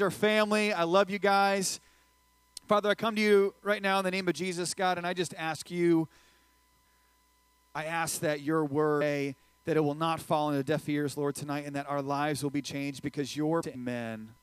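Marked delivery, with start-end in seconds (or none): 2.7-14.3 earnest public prayer on an even pitch; opening prayer. Real, not acted. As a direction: pray aloud for the group, steady and level.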